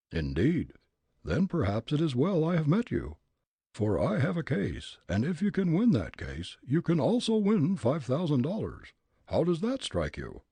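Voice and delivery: put-on loud, high, blustering old gent; gruff angry old man. Old gent challenging Fritz, gruff and angry.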